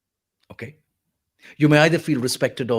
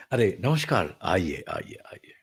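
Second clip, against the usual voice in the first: softer, lower greeting to guests; warm formal welcome; 6 semitones lower, 4 dB quieter than usual. Shown as a demonstration. Welcoming guests who came to see your sister, warm and courteous. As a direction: usher them in nicely, gently. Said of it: "you want to sound warm, you want to sound nice".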